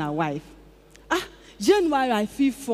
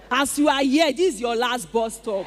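ringing declaration. Real, not acted. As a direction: proclaim it to the whole church. Preaching the testimony to the congregation.

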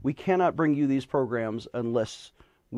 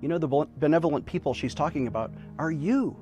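charity appeal. Acted. Fundraising appeal over music.

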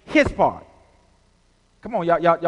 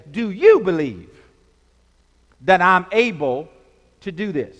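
louder, stress on you; Jesus asking; 4 dB louder than usual. Acted. Jesus to the blind men, firm question. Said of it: "Jesus says".

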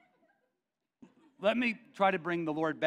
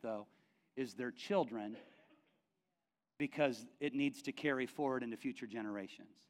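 calm divine voice; 3 semitones lower than usual. Retold or imitated. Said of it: "And the Lord said".

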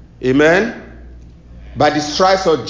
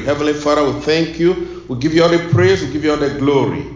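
measured congregational prayer; faster than usual. Real, not acted. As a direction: pray aloud on behalf of the church. Leads opening prayer.

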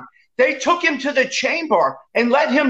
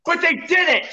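angry; 5 semitones higher, slower than usual. Real, not acted. Heated debate outburst.

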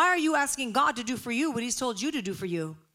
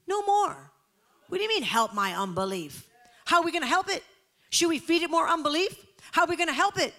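much higher, louder exclamations; exclaiming; 7 semitones higher, 5 dB louder than usual. Real, not acted. Preacher challenging the church's prayer, loud and high. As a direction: fire the questions at them.

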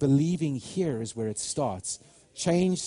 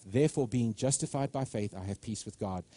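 reading scripture; 3 semitones lower than usual. Shown as a demonstration. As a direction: read the verse with reverence. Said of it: "Romans chapter five".

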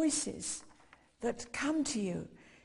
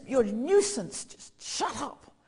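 mild mock scolding; reproving; 4 dB louder than usual. Crowd tells the beggar to keep still, reproving. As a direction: imitate an irritated telling-off. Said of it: "they reproved him and they told him".

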